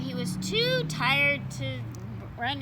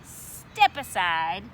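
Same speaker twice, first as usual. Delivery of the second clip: put-on tough boy; 5 semitones lower, 5 dB louder, much slower than usual. Strong boy lifting pumpkin.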